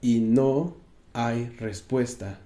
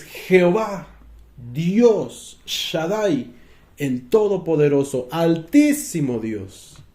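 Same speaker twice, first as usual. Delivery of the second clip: crying out to God; 3 semitones higher, slower than usual. Retold or imitated. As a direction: call up to a silent heaven. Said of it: "comenzó a dar voces".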